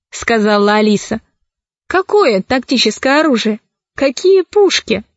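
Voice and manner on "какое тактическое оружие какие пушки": rising baffled questions; can't believe what she's asked; bewildered. Acted.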